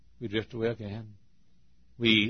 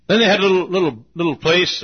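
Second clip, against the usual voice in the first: excited; 8 semitones higher, 10 dB louder than usual. Retold or imitated. Excited recollection in sermon.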